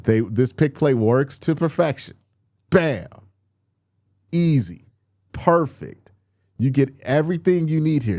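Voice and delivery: getting heated over an easy play; rising frustration, pushing the volume; worked up. Real, not acted. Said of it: "I'm getting worked up again".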